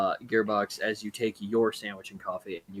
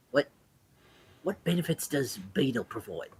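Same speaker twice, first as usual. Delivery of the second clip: confiding sea elf; faster than usual. Acted. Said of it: "pulls you close and just".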